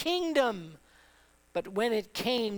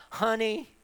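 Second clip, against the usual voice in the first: defiant reply. Retold or imitated. David answers his wife.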